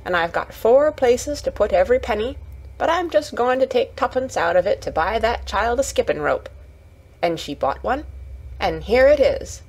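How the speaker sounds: lightly voiced Yorkshire lass retelling mother's words; a hint of homely pride; proud Yorkshire Martha. Martha telling Mary of the tuppenny rope, lightly voiced proud Yorkshire.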